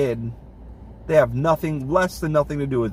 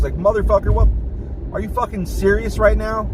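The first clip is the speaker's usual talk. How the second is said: incredulous rage; 7 semitones higher than usual. Real, not acted. Raging about boss's ten-paragraph email, incredulous angry outburst. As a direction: blow up in disbelief.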